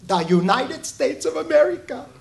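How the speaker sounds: a light imitation of a thick Russian accent; grandpa's proud Russian accent, lightly done. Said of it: "in his thick Russian accent".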